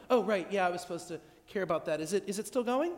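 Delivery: quick dismissive half-hearted reply; feigned interest. Acted. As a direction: pretend to care, rushing. Acted partner feigning interest.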